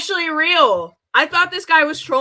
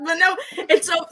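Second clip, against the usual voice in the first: ordinary delivery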